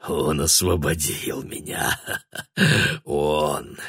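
low, soft, hoarse broken laugh; man laughing bitterly before the girl; terrible laugh. A narrator's reading. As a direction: laugh horribly, rasping. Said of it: "смех его был ужасен".

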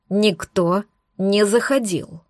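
slow, firm interruption; a hint of growl; cutting in. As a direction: cut in slowly, near a growl. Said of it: "перебил оборотень".

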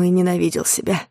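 ordinary delivery, nothing marked

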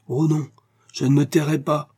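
high, loud protest; crying out. A narrator's reading. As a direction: cry out in defiance, refusing silence. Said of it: "s'écria Aurora".

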